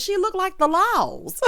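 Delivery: high, slow imitation, about to laugh; imitating with laughter rising; amused mock quote. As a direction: stretch it out high, landing on Laws. Quote she finds hilarious.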